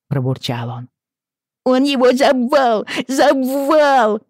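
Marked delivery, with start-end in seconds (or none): 1.6-4.2 put-on high, loud toddler wail; wailing child. Little girl wailing to her mother, high and loud. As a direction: scream it into her mother's shoulder. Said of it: "вопила Мэнди".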